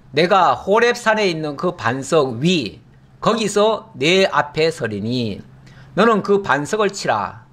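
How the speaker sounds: slow, solemn reading of the verse; scripture reading. Acted. Preacher reading the Exodus passage aloud, slow and solemn. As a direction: read the holy text slowly.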